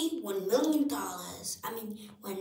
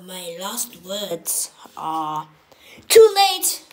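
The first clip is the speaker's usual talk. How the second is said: shouting; 3 semitones lower, 14 dB louder than usual. Acted. Victim then shout.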